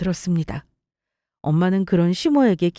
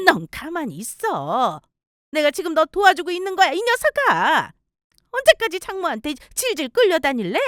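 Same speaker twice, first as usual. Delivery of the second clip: scolding mother; 8 semitones higher than usual. Acted. Mother scolding her son in front of in-law, understated. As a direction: hush the son, then scold him.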